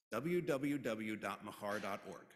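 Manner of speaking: slow, spelled-out web address; deliberately slow. Shown as a demonstration. Service leader giving the website to the congregation, slowly. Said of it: "I'm gonna say it slow".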